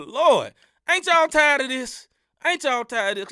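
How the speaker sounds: Lord, ain't you tired; preachy plea. Real, not acted. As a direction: appeal like a preacher. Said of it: "preaching plea to believers".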